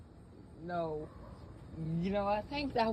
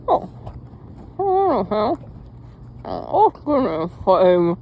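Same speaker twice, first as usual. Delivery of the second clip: phone held in teeth; 2 semitones higher, 5 dB louder than usual. Real, not acted. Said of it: "Got a phone in my mouth right now".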